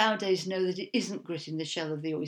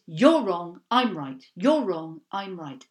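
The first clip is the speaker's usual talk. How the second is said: mock argument; 2 semitones lower, 6 dB louder than usual. Mimics binary internet arguing.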